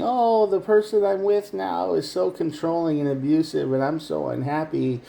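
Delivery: mock whiny complaint. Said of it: "talking to them saying".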